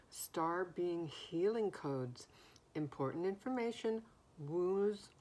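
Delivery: talking around a breath mint; mouth full. Real, not acted. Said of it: "I have a breath mint in my mouth".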